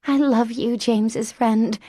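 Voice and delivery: put-on high, bright-eyed childlike voice; an eager little girl in a grown woman; childlike Mary Elizabeth.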